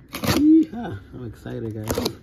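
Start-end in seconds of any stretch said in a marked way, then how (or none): 0.1-1.0 shrieking jackpot winner. Real, not acted. Excited cheer opening box.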